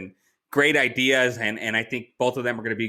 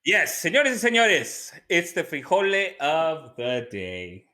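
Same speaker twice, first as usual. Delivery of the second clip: announcer voice; 3 semitones higher, slower than usual. Pretend. Announcing the segment.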